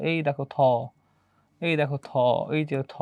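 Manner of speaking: থ held at the end of each phrase; sound singled out. Shown as a demonstration. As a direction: point out each থ by lengthening it. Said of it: "কোথায় আমাদের থ আছে".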